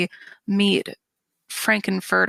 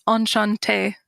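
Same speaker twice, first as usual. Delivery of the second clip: cute French greeting. Retold or imitated. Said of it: "Frank very cutely says".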